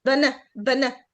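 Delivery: بنا with the B running straight into the N; barely any vowel between B and N in بنا; B stuck to N. Shown as a demonstration. Teacher showing the schwa in banana, B glued to N. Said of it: "لازقه في الان".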